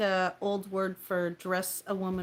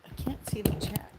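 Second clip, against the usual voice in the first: whisper; 4 dB quieter than usual. Real, not acted. Whispered aside on stream.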